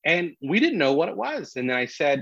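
usual speaking voice

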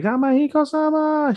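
very high, wailing falsetto call; imitated bawling cry. Girl waking from coma to her beloved, mock bawling wail. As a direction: wail his name in a hammed-up squeal. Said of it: "Just begins to bawl".

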